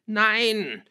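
high, loud, drawn-out cry; breathless scream. A narrator's reading. Girl packing screams at father, breathless. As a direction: scream the denial in a rush of breath. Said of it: "schrie ich atemlos".

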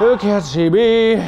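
slow, drawn-out taunting call. Pretend. Player sneaking behind an enemy, slow taunt. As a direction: stretch out the taunt. Taunting, building over three takes.

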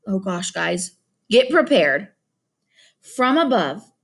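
reading a novel aloud to the class; expressive read-aloud storytelling; story narration. A narrator's reading. Teacher reads novel aloud.

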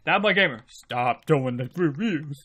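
hammed-up annoyed subscriber; mock complaining viewer. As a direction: play a grumbling fan who's sick of reviews. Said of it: "And you're like".

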